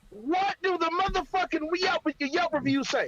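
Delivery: heated demand. Real, not acted. To his arguing co-host, exasperated, breathless demand. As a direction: wind up and demand the reviews. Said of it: "'cause you out of breath".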